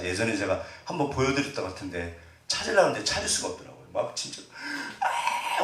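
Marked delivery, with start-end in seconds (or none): 5.0-5.6 mock wail of a weeping man; imitated sobbing. Preacher showing how middle-aged dads cried, mock sobbing. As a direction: imitate someone breaking into sobs. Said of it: "울더라고요".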